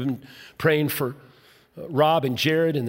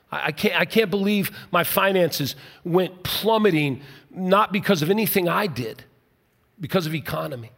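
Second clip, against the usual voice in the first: mock bitter complaint. Preacher voices a believer who lost job and health, bitter disbelief. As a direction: sound like someone hurt by what God allowed.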